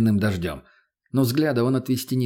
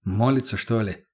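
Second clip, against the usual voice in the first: plain reading voice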